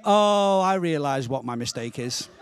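hammed-up calm, settling as it goes. Friend on the phone admitting his mistake, mock calm. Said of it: "very calmly said to me".

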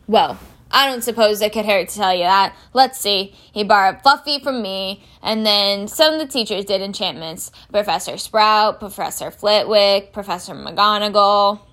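obliging big-man character voice; groundskeeper Hagrid, obliging. Acted. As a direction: give in and count them off.

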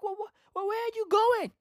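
high, soft, stammering bewilderment; baffled mock reaction. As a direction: squeak it out, stumbling in confusion. Acted baffled reply to screaming brother.

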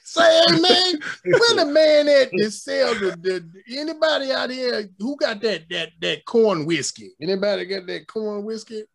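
high, loud hollering preacher; mock preacher shout. To the crowd, hammed-up preacher calling for corn whiskey.

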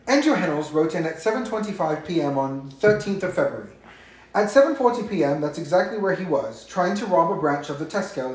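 amateur attempt at a British accent; lightly put-on British accent. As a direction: read it out in a loose, wavering British accent. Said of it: "me reading this in a British accent".

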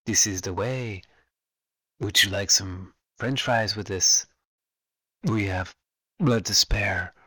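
imitating the armorer's distorted helmet voice like a drive-through intercom; mock helmet drive-through voice. Fan imitating the armorer, in a mock drive-through helmet voice. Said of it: "almost a drive-through sound".

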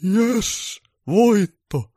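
very high, loud triumphant yell; victory shout. Acted. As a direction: cheer the win. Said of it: "joulupukki huusi".

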